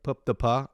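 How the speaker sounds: "Pup de Pa" as a botched French name; mispronounced French. Retold or imitated. Imitating a man asking directions, mangled French name. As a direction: say "Pup de Pa" in clumsy English-sounding French. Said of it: "it sounded like that".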